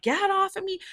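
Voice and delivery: high-pitched retold squeal of protest; acting out an outraged cry while being grabbed; indignant protest. To the bouncer grabbing her, high indignant protest.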